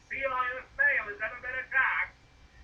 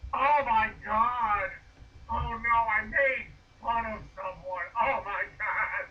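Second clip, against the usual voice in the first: mock horror; slower than usual. Mock horror at own joke.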